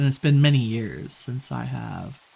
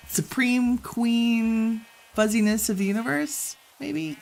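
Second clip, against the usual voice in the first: mock grandeur; 9 semitones higher, slower than usual. Grand mock title for sheep.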